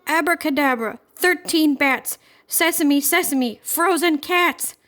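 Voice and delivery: high, loud, slow chanted incantation; loud, shrill spell. A narrator's reading. Little witch chanting a spell to free the cat, high and slow. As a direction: cast the spell loud and drawn out. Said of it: "In a loud, shrill voice".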